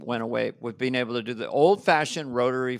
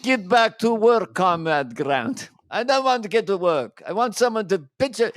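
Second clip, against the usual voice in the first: Cary Grant impression; 4 semitones higher than usual. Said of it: "I do Cary Grant".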